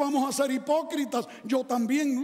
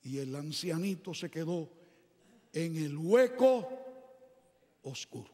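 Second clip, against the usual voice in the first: hushed; 7 semitones lower, 5 dB quieter than usual. Acted. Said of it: "preacher hushes for dark pit".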